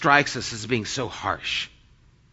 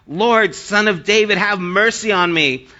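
raised, higher-pitched plea for mercy; crying out; 5 semitones higher, 4 dB louder than usual. Retold or imitated. Canaanite woman begging Jesus for mercy, crying out. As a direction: call out urgently in appeal. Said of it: "crying out".

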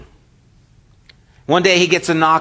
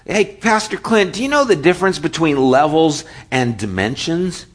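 put-on higher, eager teen voice; eager car wash boy; 5 semitones higher than usual. Car wash boy asking Pastor Clint for a word, eager and higher. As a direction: pipe up like a keen kid at the door.

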